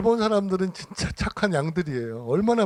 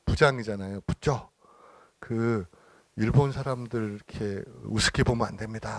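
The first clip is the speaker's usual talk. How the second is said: mild warning; 4 semitones lower than usual. Retold or imitated. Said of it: "협박도 해요".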